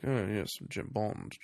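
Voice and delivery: a hint of a smooth British spy; suave Bond voice. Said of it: "his suave Bond voice".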